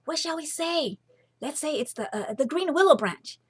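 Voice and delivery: hurried scheming whisper; feverish whisper. A narrator's reading. Sisters whispering feverishly for an answer. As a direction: hiss it to each other in a panic. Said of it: "whispering feverishly again".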